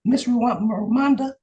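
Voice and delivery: ordinary delivery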